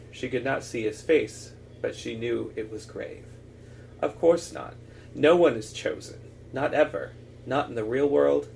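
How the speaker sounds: measured, earnest read-aloud of a novel; story narration. Acted. Reader shares a rallying speech from a fantasy novel, story narration. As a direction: read it as a stirring, deliberate pep talk.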